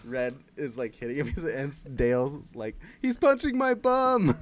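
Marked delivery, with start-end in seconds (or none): 3.0-4.3 Dale. Retold or imitated. Imitates Dale complaining in fight.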